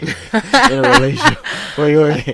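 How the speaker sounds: high, loud breaking into laughter; laughing. Real, not acted. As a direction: crack up mid-word. Cracks up over fumbled word.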